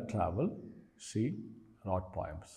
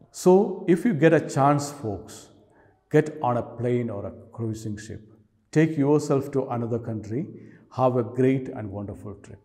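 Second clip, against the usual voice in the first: poem reading; 5 dB louder than usual. Acted. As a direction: recite verse, each line starting loud and falling away. Reads the poem aloud.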